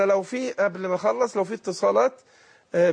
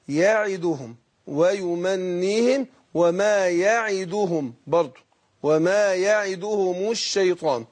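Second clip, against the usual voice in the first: slow recitation, every syllable held; slow correct reading; slower than usual. Shown as a demonstration. Teacher to student modelling the correct verse slowly. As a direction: model the words unhurriedly for the student. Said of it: "الصحيح، آه، إن أنا أقول إيه؟".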